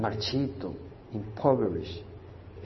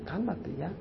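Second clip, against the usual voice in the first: calming himself; 5 semitones higher, 6 dB quieter than usual. Retold or imitated. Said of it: "hablarse a sí mismo".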